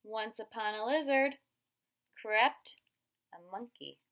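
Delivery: put-on loud dramatic read to a child; building storybook suspense. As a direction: make the creeping sound dramatic. Dramatic book reading.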